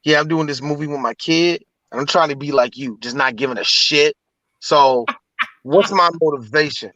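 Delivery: lightly voiced low-pitched actor; Will Smith. Actor asking mentor for motivation, lightly imitated star. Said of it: "Will Smith and Mister Costa".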